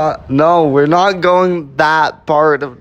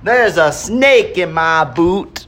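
Woody impression; 3 semitones higher, slower than usual. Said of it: "Do Woody".

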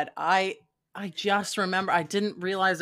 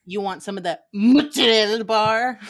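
mock Italian accent; 5 semitones higher, 8 dB louder than usual. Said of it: "people pronouncing mozzarella".

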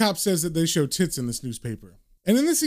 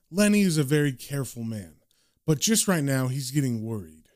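measured, slightly lowered noir caption reading; story narration; 3 semitones lower than usual. A narrator's reading. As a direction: narrate a crime comic with dry understatement. Reads the comic's narration captions.

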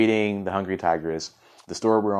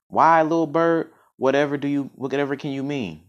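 higher, puzzled questioning; surprised; 8 semitones higher, 5 dB louder than usual. A narrator's reading. Falcon asking the little bird, surprised. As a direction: ask it in lofty amazement.

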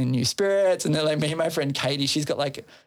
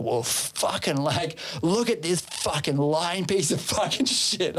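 slow, higher-pitched mock contempt; imitated angry neighbour; 4 semitones higher, slower than usual. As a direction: spit out the insult as a retold accusation. Retold neighbour's angry outburst.

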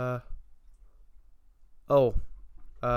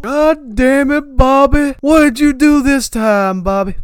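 Hank Hill; 5 semitones higher than usual. Acted. Hank voice scolding.

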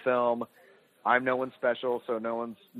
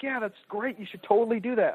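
put-on British accent; 11 semitones higher than usual. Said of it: "I'm not gonna pretend to do a British accent".

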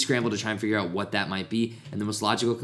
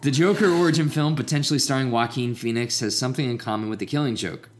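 louder, higher, pushed enthusiasm; forced high energy; 3 semitones higher, 3 dB louder than usual. Shown as a demonstration. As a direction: force the energy despite the hangover. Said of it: "Cal said high energy".

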